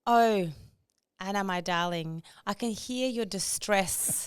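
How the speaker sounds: slow, syrupy condescending soothing; patronizing AI voice. Retold or imitated. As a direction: talk down sweetly like a chatbot. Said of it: "you're so patronizing".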